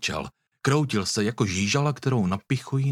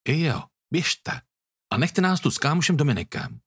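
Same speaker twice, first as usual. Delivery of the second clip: higher, dripping with spite and disgust; spiteful sneer; 4 semitones higher than usual. A narrator's reading. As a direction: sneer it at them like he wants them gone. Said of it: "Hlas měl Tobiáš protknutý jizlivostí a odporem". (jízlivě a s odporem)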